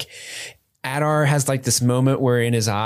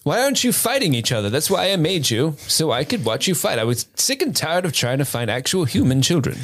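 scolding papa; 4 semitones higher than usual. Acted. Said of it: "he rolls out like".

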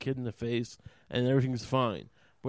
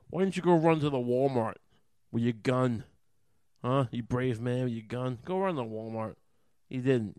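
louder, jabbing challenge at a coward; angry taunt; 4 dB louder than usual. Real, not acted. Taunting the soldier from the El Paso story, angry and loud. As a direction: throw it in his face, scornful.

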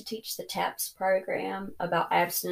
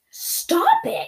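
high-pitched playful exclamation; shocked shout; 5 dB louder than usual. Acted. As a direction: squeal it in mock shock. Mock shock at gossip.

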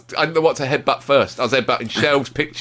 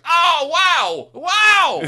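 mock vain striker; 11 semitones higher, much slower than usual. Mocking a vain striker to his co-host, hammed-up and shouting. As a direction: crow about yourself like a vain footballer. Imitating Giroud in a mirror.

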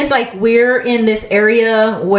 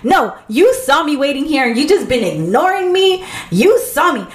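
imitating an indignant customer, higher voice; mock yell; 5 semitones higher than usual. Volunteer imitates a customer who felt ignored, mock indignant. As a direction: accuse in a raised pitch, retold. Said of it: "I hear a guy yelling".

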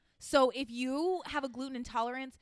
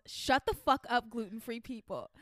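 slow, spat-out rant; angry celebrity; slower than usual. Acted. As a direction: read it like a furious celebrity. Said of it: "the celebrity responds".

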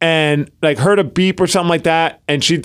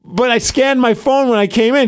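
high puzzled self-quote; 8 semitones higher than usual. Retold or imitated. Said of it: "I'm like".

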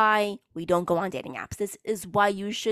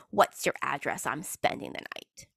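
mocking smug guy; 5 semitones lower, 4 dB quieter than usual. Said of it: "they think they're being smart".

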